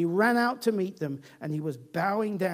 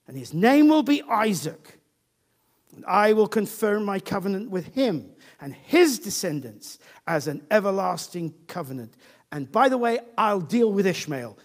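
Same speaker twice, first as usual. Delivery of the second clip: emphatic God; 6 dB louder than usual. Acted. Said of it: "God answers him somewhat emphatically".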